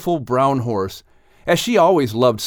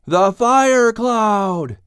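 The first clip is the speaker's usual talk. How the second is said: slow, drawn-out cry of recognition, high and louder; excited exclamation; 9 semitones higher, 4 dB louder, much slower than usual. A narrator's reading. The animals all recognise the fire cloud, exclaiming slowly. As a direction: stretch it out in amazed unison. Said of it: "the entire group of animals exclaimed".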